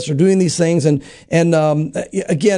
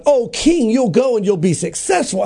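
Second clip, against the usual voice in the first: lightly mocking, sing-song praise for the king; mocking flattery; 3 semitones higher than usual. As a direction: fake cheer, tongue in cheek. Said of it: "he says it in a very mocking way".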